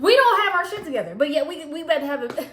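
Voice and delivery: laughing at their mess. Real, not acted. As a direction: laugh it out loud. Laughing at situation.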